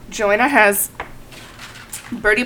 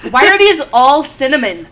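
exasperated; 7 semitones higher, 10 dB louder than usual. Real, not acted. Keeps getting cinnamon beans.

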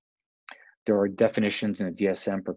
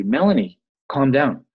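mock order; 5 semitones higher, 8 dB louder than usual. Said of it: "and I go to you".

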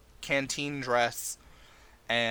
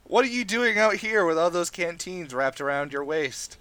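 penguin voice; 6 semitones higher, 5 dB louder than usual. Acted. Penguin questions camel.

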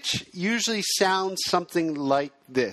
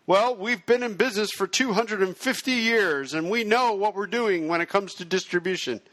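slightly raised, amateurishly acted sales pitch; aggregator salesman; 4 semitones higher than usual. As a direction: lightly play a distributor touting long experience. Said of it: "I will play the video on demand aggregator".

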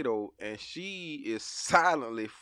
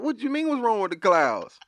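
puzzled dad; 3 semitones higher than usual. Retold or imitated. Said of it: "I said".

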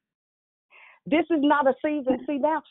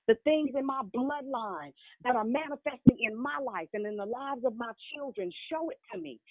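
prayer. Shown as a demonstration. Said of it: "This is to say".

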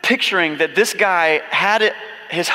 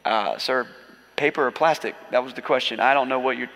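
confused bagger; 4 semitones lower, 4 dB quieter than usual. Pretend. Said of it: "And the guy's like".

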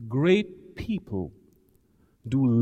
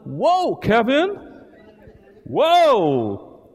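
mock amazement; 7 semitones higher, 4 dB louder, much slower than usual. Retelling his amazed reaction.

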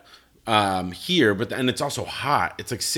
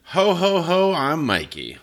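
Santa laugh; 6 semitones higher, 4 dB louder, slower than usual. Pretend. Christmas episode, Santa laugh.

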